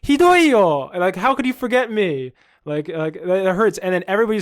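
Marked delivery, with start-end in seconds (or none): 0.0-2.3 high, loud wounded wail at a friend; pretending to be hurt that a stranger forgot him; mock hurt outcry. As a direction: ham up being forgotten. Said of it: "And I'm like".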